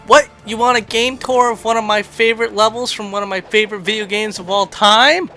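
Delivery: hammed-up amazement, building to the end; mock incredulous. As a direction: play up astonished disbelief at the request. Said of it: "And to that I say".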